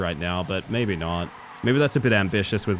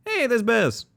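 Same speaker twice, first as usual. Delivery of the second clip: much higher, delighted cry; excited call; 12 semitones higher, slower than usual. Real, not acted. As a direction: point them out with glee. Spots bears in the game.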